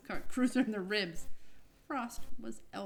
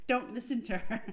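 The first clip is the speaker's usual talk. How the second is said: louder playful aside; teasing; 3 semitones higher, 4 dB louder than usual. Real, not acted. Reader teasing co-reader after her correction, playfully louder. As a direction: brush her off jokingly.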